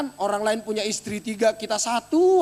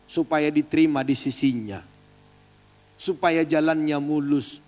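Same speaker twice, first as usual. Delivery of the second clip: mock pious relative; 7 semitones lower than usual. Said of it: "jangan bilang begini".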